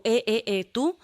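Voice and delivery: imitating an agitated man stopping her as she leaves; agitated challenge. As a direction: retell him barking at her to stop, pitch jumping up on the last word. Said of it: "muy alterado".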